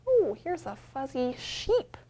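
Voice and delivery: ordinary delivery, nothing marked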